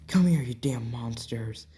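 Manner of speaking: a snarled, breathy threat; menacing hoarse whisper. Acted. Hero snarls at the monsters, hissed threat. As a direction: hiss it at the monsters. Bakugo-like adventurer threatens orcs.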